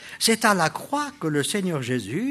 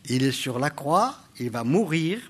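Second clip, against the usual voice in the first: normal talking voice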